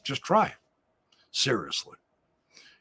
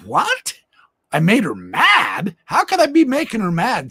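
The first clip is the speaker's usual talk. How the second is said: mock surprise; 3 semitones higher, 5 dB louder than usual. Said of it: "I go".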